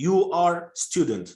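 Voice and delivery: lightly stilted "You are student", article dropped; artificial speech. Shown as a demonstration. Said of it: "It's not something artificial".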